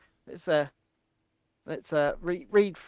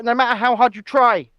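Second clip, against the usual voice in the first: mock-serious warning; lightly put-on stern politician; Rishi Sunak; 3 dB louder than usual. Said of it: "Very serious".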